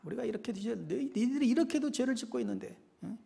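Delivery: hushed, half-whispered taunting accusation; Satan's whisper. Acted. Satan accusing believers who keep sinning, whispered. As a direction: whisper it like an insidious accuser, very soft. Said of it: "속삭여요".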